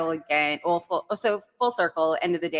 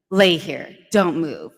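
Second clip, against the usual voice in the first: firm, louder imitated command; retold aggressive order; 6 dB louder, much slower than usual. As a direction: give two short orders, firmly. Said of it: "kind of aggressively".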